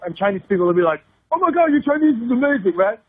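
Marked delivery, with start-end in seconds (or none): 1.3-2.7 higher-pitched gushing praise; hammed-up awe; mock amazement. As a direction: imitate someone wildly impressed. Imitates locals gushing over a foreigner's Chinese.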